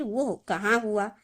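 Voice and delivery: वो कहाँ हुआ slow, asked as a question on कहाँ; question tune. Shown as a demonstration. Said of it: "फिर यहाँ क्वेश्चन मार्क".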